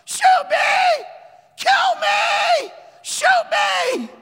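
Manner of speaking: high, loud defiant yells; yelling out. Retold or imitated. Preacher voicing Alberto daring the gunmen, loud shout. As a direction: dare them to shoot, full shout. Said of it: "he starts yelling out".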